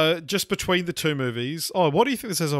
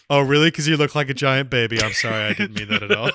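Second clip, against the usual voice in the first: run together; 6 dB louder than usual. Retold or imitated. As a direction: insult and apology run together. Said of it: "He just runs it together".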